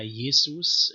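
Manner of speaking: Jesus said as yesus, slow, with a rising tune; Jesus pronounced yesus; Greek-style name. Shown as a demonstration. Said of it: "based on the Greek, uh, Jesus".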